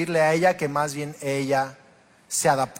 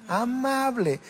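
gentle demo of amable; 7 semitones higher, 4 dB quieter, slower than usual. Shown as a demonstration. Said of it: "lo opuesto es ser amable".

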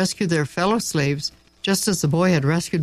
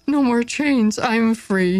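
raised, bright cry of freedom; joyful shout; 7 semitones higher than usual. A narrator's reading. Freed slave shouting his joy to the sky. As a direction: shout it out, newly free. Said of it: "he shouted".

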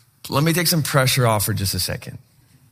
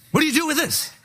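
baffled reader; 13 semitones higher than usual. Retold or imitated. Reader baffled by odd verse.

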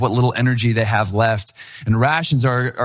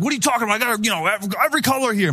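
higher, indignant retort from the seller; getting angry; 8 semitones higher, much faster than usual. Retold or imitated. Seller angrily insists he has every color to the young buyers. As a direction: play the seller bristling at the insult. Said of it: "he started getting angry at this point".

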